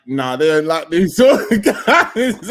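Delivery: mock racist dad. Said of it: "that racist dad, yeah, is like".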